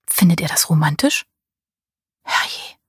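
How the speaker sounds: leise geflüstert, zweifelnd; flüsternd. Acted. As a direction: die Zweifel nur hauchen. Susanne's inner doubts. (sie flüstert ihre Zweifel an Paul leise vor sich hin)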